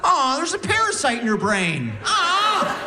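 high cooing aww; teasing sympathetic aww; mock pity. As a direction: coo it like pitying a pet.

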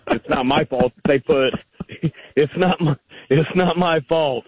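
chuckling through the words; amused, restarting through small laughs; laughing. Real, not acted. Joking about British pronunciation.

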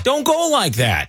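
Don't GO like that, drawn out slowly; stress on go. Shown as a demonstration. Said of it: "it hurts if you go like that?".

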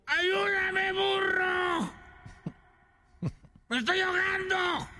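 very high squeaky tiny-ant shout; ant crying for help. Acted. Ant begs the donkey for help, high squeaky shout. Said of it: "Y gritó".

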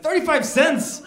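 high, loud incredulous echo; outraged disbelief. Retold or imitated. Customer balking at the price of cheese, outraged disbelief. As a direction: throw the price back in comic outrage.

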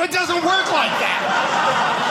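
high, drawn-out exasperated rant; exasperated yell. Acted. Son to mom on the phone, high exasperated mock yell. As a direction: wail it high in hammed-up disbelief.

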